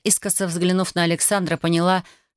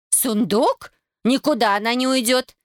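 higher, raised protest; shout; 5 semitones higher than usual. A narrator's reading. Naira shouts at Alexander not to take Tatiana, higher. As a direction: shout him down, refusing. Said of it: "крикнула Наира".

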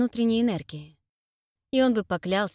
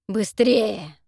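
hurrying; 6 dB louder than usual. Acted. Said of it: "торопил монстр".

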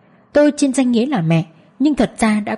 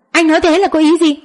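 angry; 8 semitones higher, 4 dB louder than usual. Acted. Vợ chất vấn chồng gay gắt.

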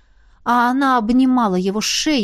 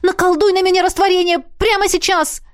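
high, loud insistence on "прямо"; urgent demand; 9 semitones higher, 3 dB louder than usual. A narrator's reading. Heroine shakes Emmet, demanding the spell now, high and loud. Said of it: "потребовала я у Эммета".

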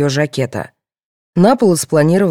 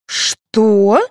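loud, higher, drawn-out outraged question; indignant; 6 semitones higher, 5 dB louder than usual. A narrator's reading. Mother told that pockets will be searched, indignant. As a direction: take offence, loudly. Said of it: "возмутилась Григорьева".

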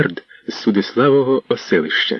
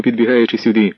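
ordinary delivery, nothing marked

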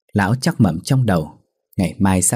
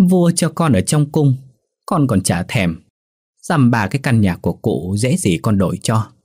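mocking reply; 2 semitones higher than usual. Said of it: "cười cợt đáp".

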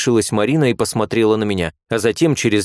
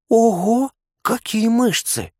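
put-on much higher, slow, thrilled girlish gasp; excited exclamation; 13 semitones higher, slower than usual. A narrator's reading. Marina seeing the patient's muscles, thrilled. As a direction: squeal with delight at his muscles. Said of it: "воскликнула та".

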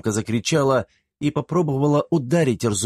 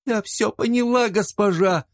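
much higher, tearful surrender; sobbing; 13 semitones higher than usual. A narrator's reading. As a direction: choke the words out through tears. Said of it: "рыдая и глотая слова и слёзы".

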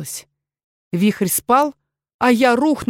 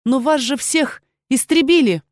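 astonished; 5 semitones higher than usual. Acted. Astonished protest.

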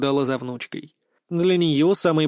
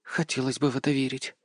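heavy sigh; 6 dB quieter than usual. A narrator's reading. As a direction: sigh it out quietly, barely hoping. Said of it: "тяжело вздохнула".

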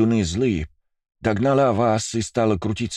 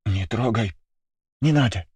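higher, shrinking plea; timid refusal; 4 semitones higher than usual. Acted. Girl recoils from his hug, mildly afraid. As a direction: pull back, scared of the touch.

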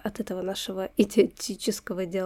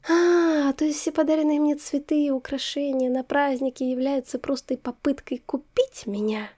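sugary venom; 4 semitones higher than usual. Acted. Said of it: "Сладким голосочком с парой литров яда".

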